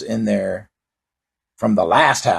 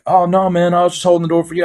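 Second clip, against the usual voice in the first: imitating door-holder; 7 semitones higher, faster than usual. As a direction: protest innocently like the stranger. Door-holder answering, voiced.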